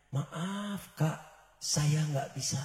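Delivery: softly voiced sister turning her down; soft refusal.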